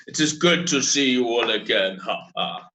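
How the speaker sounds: a second try at a lightly voiced Hutt accent, ending in a chuckle; bad Hutt accent. Crime lord Boga repeats his greeting, mild bad Hutt accent. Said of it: "This is my bad Hutt accent".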